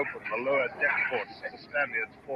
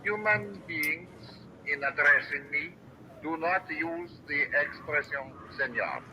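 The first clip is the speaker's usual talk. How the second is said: put-on Spanish accent; 2 semitones higher than usual. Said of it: "that accent sounded more French".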